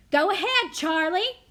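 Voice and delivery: loud, high demand; screaming. A narrator's reading. Crowd pressing Charlie for a name, screaming. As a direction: yell it as an impatient mob.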